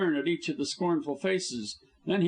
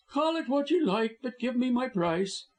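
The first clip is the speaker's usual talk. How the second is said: high, smug villain; mocking high-pitched schemer; sneering villain voice; 11 semitones higher than usual. A narrator's reading. Busham voice in novel.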